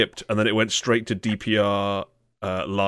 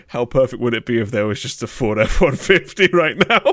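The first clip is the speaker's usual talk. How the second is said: laughing; 3 semitones higher, 5 dB louder than usual. Retold or imitated. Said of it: "I was like".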